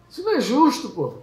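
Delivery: high-pitched protest at unfair treatment; acted outcry of an aggrieved worker; indignant cry. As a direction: cry foul, pitched well up. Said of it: "daquele grito de "é injusto".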